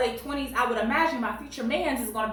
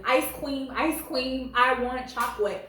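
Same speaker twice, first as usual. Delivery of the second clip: put-on toddler baby talk; 2 semitones higher than usual. Wife's story of husband begging in the store, mock toddler. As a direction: imitate a kid saying r as w, no real yell. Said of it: "jumped up and down yelling".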